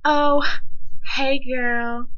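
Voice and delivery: high, loud fake-sweet "hey girl"; mimicking a bully acting nice the next day; fake-friendly greeting. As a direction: gush it like a two-faced friend. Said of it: "they're like".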